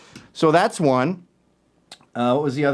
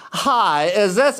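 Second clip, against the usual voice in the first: higher-pitched impression of a gay caller; mock gay man; 5 semitones higher, much slower than usual. BuzzFeed writer phoning the host, mock camp voice. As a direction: put on a mildly camp phone greeting. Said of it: "you're clearly gay".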